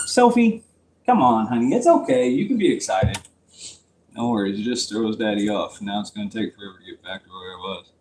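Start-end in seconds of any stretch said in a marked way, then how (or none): 0.1-3.2 higher, coaxing call to Sophie. Real, not acted. Speaker breaks off the story to coax Sophie, coaxing. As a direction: gently encourage an excited little one. Calling excited pet over mid-story.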